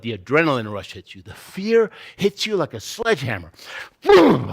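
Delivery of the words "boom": loud, high burst; explosive sound effect; sudden impact. Acted. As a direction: hit it like a sledgehammer blow. Fear hits like a sledgehammer.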